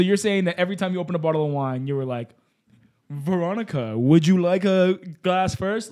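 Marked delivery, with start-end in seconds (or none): 3.1-5.9 slow, drawn-out imitation of an offer; mock polite offer. Co-host imitating the host offering wine, mock polite offer. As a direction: lightly parody a courteous host, stretching the words. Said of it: "just like that every single time".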